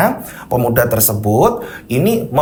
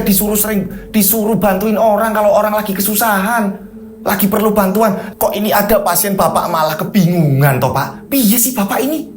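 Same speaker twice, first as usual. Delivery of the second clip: scolding wife; 4 semitones higher than usual. Acted.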